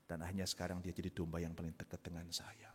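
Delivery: soft whispered ending. Acted. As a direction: breathe the happy ending. Tender ending of shepherd story.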